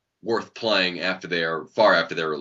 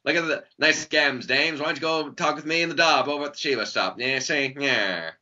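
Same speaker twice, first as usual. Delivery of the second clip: 1940s gangster voice; 6 semitones higher than usual. Pretend. Mocking old-school pinup era talk.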